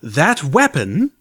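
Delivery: slow, gruff insistence; a hard soldier mare demanding. A narrator's reading. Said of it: "a gruff mare's voice insisted".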